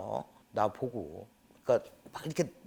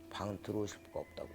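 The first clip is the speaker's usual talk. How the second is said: softer hushed whisper, no voice; whispered warning; 6 semitones lower, 17 dB quieter, faster than usual. Retold or imitated. Shaman whispering to the mother to stay out. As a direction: whisper so the spirit won't hear.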